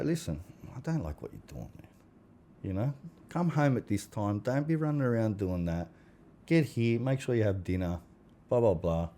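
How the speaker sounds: a hint of a steady, calm dad setting rules; calm fatherly talk. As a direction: speak evenly to the kids, no yelling. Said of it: "I'll be calm and go".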